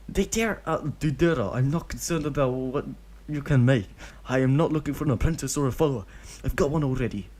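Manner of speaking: put-on shutting the kid down quickly; lightly voiced firm adult. Obito turning Deidara away, lightly voiced brisk refusal.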